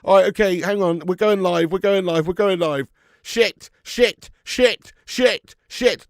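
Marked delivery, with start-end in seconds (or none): 3.2-6.1 higher, louder repeated curse; real annoyance, spat out; frustrated swearing. Real, not acted. Streamer realises missed goal, loud frustrated swearing. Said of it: "Shit, I wasn't live".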